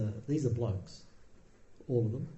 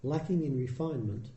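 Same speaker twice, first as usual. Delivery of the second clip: put-on measured recitation of an old text; scripture reading. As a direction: read it like a sacred text, evenly. Reads the Buddha's discourse.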